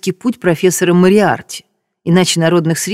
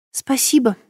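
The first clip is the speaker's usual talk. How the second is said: curt, dry thank-you; 6 semitones higher, 4 dB quieter than usual. A narrator's reading. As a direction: say it dryly, without warmth. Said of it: "сухо повторила Ирина".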